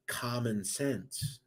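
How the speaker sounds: very slow, each word weighted; slow emphatic slogan. Acted. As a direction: lay down the motto, drawn out. Repeats show slogan.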